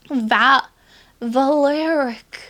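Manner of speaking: "Valeric" gedehnt und unsicher ausgesprochen, langsam; botched pronunciation. Real, not acted. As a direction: stumble slowly over "Valeric" like a failed Jamaican accent. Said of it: "I'm really bad at pronouncing things".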